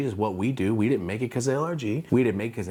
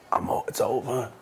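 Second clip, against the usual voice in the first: mock defeated. Acting out his despair at booth.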